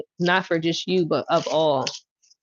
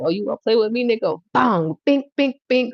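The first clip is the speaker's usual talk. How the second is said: taunting God; 4 semitones higher than usual. Retold or imitated. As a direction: taunt like a boxer about to swing. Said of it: "like, God, like".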